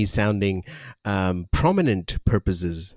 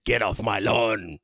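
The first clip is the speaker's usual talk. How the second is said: Clint Eastwood voice. Retold or imitated. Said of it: "Clint Eastwood voice".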